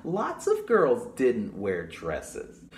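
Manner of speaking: put-on reading to children. Librarian reading the story to children, storytime voice. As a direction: read it brightly to the children. Reads the book aloud.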